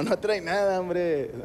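lightly amused, dismissive doctor; a hint of a doctor holding back laughter; imitated laughing doctor. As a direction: wave it off with a mock chuckle in the voice. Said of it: "el vato riéndose dijo".

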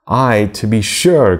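N=Miss Charlotte/character; crying out. Acted. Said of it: "cried Miss Charlotte".

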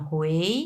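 "হুয়েই" starting low and rising; second tone. Shown as a demonstration. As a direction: Mandarin tone two on "হুয়েই", pitch sliding up. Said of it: "দুই number tone". ("হুয়েই" দুই number টোনে, উঠতি সুরে)

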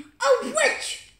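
high loud frightened scream. Real, not acted. Kid spots a witch in the game, loud high scream. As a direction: shriek at the sudden witch. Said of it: "don't scream".

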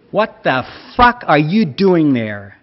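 angry American man yelling over the engine; furious shout from behind a car door. A narrator's reading. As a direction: bark it at the intruder. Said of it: "rief eine wütende Männerstimme".

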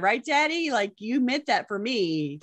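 playful, pleading pet to owner; a hint of an entitled dog; lightly voiced dog. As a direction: speak as a hopeful dog to Daddy. Voices the dog claiming laundry.

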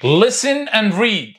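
very slow, stretched; slow model reading. Shown as a demonstration. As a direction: read it slowly for repetition. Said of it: "يلا".

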